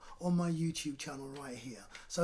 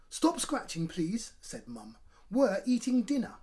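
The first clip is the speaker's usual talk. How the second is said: higher, louder nagging mum; a mum telling off at dinner; scolding mum; 4 semitones higher, 5 dB louder than usual. Acted.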